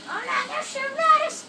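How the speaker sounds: shaky stammering panic. Real, not acted. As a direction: shout in sudden panic. Panicked shooting escape in game.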